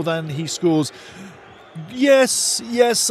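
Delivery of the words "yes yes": eager yes. Real, not acted. Eager agreement with a chatter.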